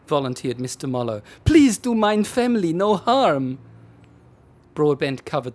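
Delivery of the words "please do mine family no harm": put-on German accent. Panicked German husband on phone.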